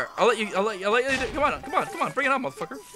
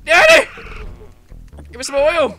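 put-on whiny kid begging; 7 semitones higher, 7 dB louder than usual. Child begging daddy for oil.

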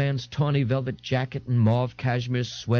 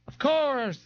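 bored drawl. Acted. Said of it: "in a voice heavy with boredom".

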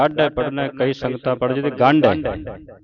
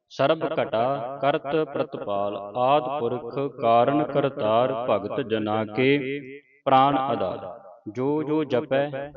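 scripture recitation; 2 semitones higher than usual. Acted. Teacher reciting Gurbani for students to follow, measured recitation. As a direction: recite each phrase clearly, pausing between phrases.

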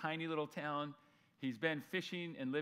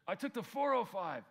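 higher-pitched mock Southern California accent; a light take on a SoCal local; SoCal dialect; 7 semitones higher, 6 dB louder than usual. Preacher mimics a freeway-talking local, mock SoCal accent. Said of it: "you're from Southern California".

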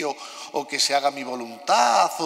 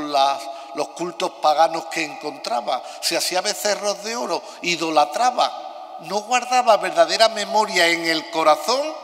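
cathedral echo. Real, not acted. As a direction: voice ringing in a big stone church. Homily recorded in a large church.

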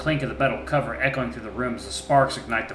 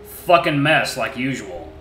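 gruff curse; 2 semitones higher, 7 dB louder, slower than usual. Acted. Wolf curses.

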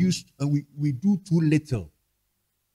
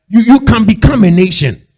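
forceful preaching; 9 dB louder than usual. Real, not acted.

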